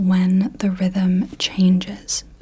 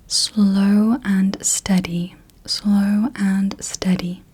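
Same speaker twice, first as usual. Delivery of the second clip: drawn-out whisper for counting syllables; slow, measured whisper; much slower than usual. Shown as a demonstration. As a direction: whisper it very slowly, word by word. Phrase given for counting syllables.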